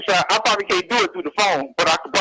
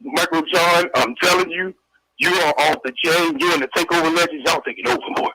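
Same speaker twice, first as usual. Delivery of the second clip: lightly lowered, gruff-toned comedian voice; Paul Mooney impression. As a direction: play the old-school comic hyping the host. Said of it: "I do impersonations of, uh, Paul Mooney".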